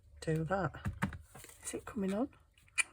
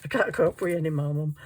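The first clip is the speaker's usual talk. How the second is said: voicing the cat; 6 dB louder, faster than usual. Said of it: "He says".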